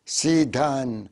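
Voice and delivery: sidan stretched slowly, each syllable clear; slow, drawn out. Shown as a demonstration. Teacher spells out سيدان slowly to the class. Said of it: "قلنا سي الملكية".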